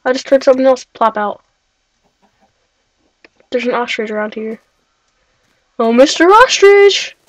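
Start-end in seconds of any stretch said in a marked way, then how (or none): 5.8-7.2 high, slow teasing call; singsong call. Pretend. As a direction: lure the animal out sweetly, slowly. Calling out to an ostrich.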